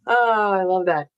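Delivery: slightly raspy, just woke up; raspy morning voice. Real, not acted. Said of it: "just woke up voice. It's a little raspy".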